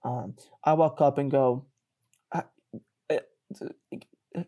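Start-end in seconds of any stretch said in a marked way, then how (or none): 2.3-4.4 tongue-tied panic. Retold or imitated. Guy freezing before the girl, tongue-tied panic. His game plan collapses before her.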